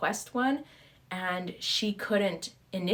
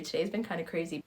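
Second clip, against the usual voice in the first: ordinary delivery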